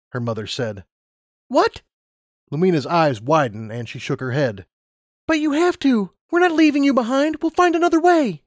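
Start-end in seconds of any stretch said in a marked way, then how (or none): 1.5-8.4 put-on much higher girl's voice; young Lumina, upset. Lumina refusing to leave her mother behind, high and upset. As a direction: protest in disbelief.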